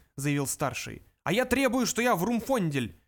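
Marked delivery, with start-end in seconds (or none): 1.2-3.0 high, loud demand; shouted, pitched way up, slowing on the name; indignant yell. A narrator's reading. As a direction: bellow it like a stubborn protester. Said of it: "заорал младший".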